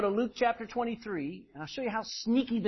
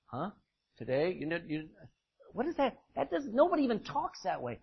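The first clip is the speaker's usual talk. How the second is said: baffled thief. Acted. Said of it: "Like the thief is going".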